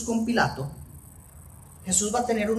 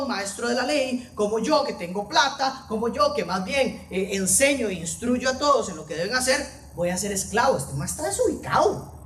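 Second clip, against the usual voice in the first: fariseo indignado; 2 semitones higher than usual. Retold or imitated. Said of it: "Esta es la expresión de los fariseos".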